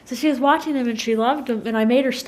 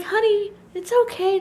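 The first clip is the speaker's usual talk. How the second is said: high-pitched, soothing parent voice; retold consoling mother; 10 semitones higher than usual. Mother consoling her crying daughter, retold soothing. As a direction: comfort a crying child, lightly acted. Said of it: "she was still quietly crying".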